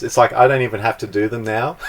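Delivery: a real laugh breaking in at the end. Real, not acted. Student telling the coach he skips other videos, laughing. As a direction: talk fast through a laugh.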